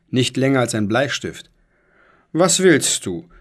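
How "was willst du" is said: hollow, higher ghostly call. Acted. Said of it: "rief er mit hohler Stimme".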